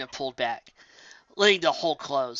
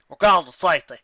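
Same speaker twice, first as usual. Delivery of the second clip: shouted; 2 semitones higher, 8 dB louder than usual. Acted. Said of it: "Applejack shouted".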